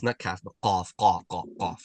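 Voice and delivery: "qaf" deep from the throat, "kaf" light; qaf not kaf. Shown as a demonstration. Teacher correcting the student, deep throaty "qaf". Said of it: "so qaf".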